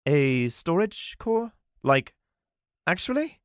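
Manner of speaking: can't believe what he just heard; groaned disbelief. Acted. Armand hearing of the storage core, stunned. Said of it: "Armand groaned".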